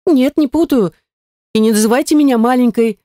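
lightly voiced indignant witch. A narrator's reading. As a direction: bristle at being called little. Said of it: "возмутилась в ответ".

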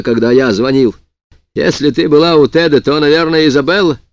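exasperated, sharp; irritated retort. Acted. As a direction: snap back at her, exasperated. Husband snaps back on phone.

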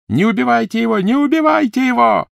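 very high, loud desperate cry; desperate shout. Acted. Malfoy shouts at Crabbe and Goyle, very high and loud. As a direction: beg them to stop. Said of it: "крикнул Малфой".

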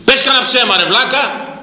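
high jeering voice of a scoffer; mocking scoffer. Preacher mimics people mocking the faithful, high jeering. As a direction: sneer it like the mocking crowd. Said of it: "έτσι δεν σου λένε".

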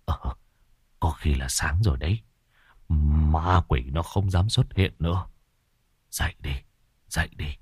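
put-on an old sorcerer, cautiously waking the others. Old sorcerer Bảy speaking. (ông thầy cất giọng trầm, nhỏ, gọi mọi người dậy)

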